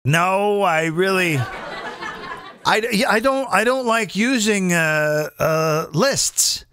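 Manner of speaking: giggling through the answer; amused, half-laughing refusal; laughing reply. Retold or imitated. Quoting his own reply laughing.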